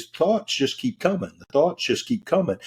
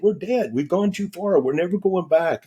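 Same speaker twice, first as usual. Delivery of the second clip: higher mimic of his scared wife; wife panicking; 7 semitones higher than usual. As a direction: play her certain they've died, pleading. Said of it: "she's saying".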